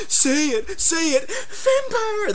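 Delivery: very high, wailing falsetto; hammed-up tearful film dialogue, slow and squeaky; mocking movie impression. Mockingly acting out the film's dialogue.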